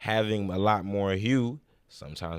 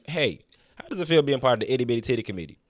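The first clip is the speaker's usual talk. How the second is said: playful street interview voice; 3 semitones higher, 5 dB louder, faster than usual. Retold or imitated. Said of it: "if a dude came up to me".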